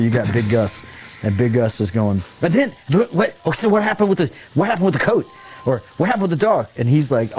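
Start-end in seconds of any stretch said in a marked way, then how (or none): 2.4-6.7 high, pestering imitation of an interrupter; stumbling, insistent mock questioning; Big Gus. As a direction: butt in with eager, high-pitched questions. Big Gus interrupting Lyle's story.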